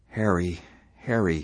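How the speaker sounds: a helpless plea by name. A narrator's reading. Wife to stubborn husband, helplessly pleading. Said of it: "she said helplessly".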